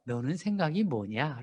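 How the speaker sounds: slow, gentle open question; calm asking. Shown as a demonstration. Mother asks child's opinion, slow gentle question. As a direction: ask the child respectfully, slowly. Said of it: "그러지 말고 뭐라고 하셔야 돼요".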